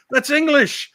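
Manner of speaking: loud, high retold reply; mock-emphatic, pitched well up; amused exclamation. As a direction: answer as if it were obvious. Retells friend's laughing answer.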